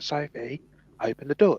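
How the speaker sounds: high, loud frantic shout; going skits. Retold or imitated. Girl shouting at her sister through the door, high and frantic. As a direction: yell it through the locked door, panicking. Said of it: "going skits".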